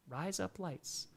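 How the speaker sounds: slow, soft Australian accent, sounding like razor blades. Shown as a demonstration. Streamer tries the Australian accent for the chat. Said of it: "in an Australian accent".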